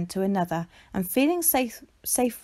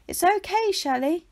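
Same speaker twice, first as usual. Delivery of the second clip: encouraging; 8 semitones higher than usual. A narrator's reading. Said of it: "encouraged Lucinda".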